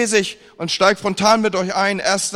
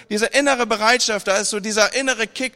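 normal talking voice

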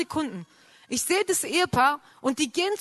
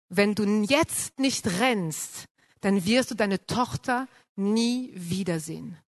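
slow, solemn voice of God speaking down; a lightly voiced heavenly command, unhurried; 3 semitones lower, slower than usual. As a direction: deliver it slowly like a divine warning. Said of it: "eine Stimme gehört, die vom Himmel kam".

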